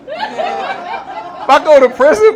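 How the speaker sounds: slow squeaky mock whine; high comic wail. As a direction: stretch it out high and pleading.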